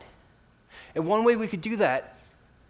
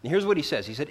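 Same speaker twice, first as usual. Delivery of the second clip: ordinary talk, nothing marked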